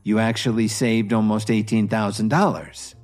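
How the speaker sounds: calm. Acted. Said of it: "smiled and said calmly".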